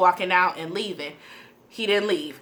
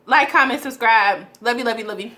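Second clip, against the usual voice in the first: upbeat outro; 2 semitones higher, 4 dB louder than usual. Real, not acted. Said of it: "outro call".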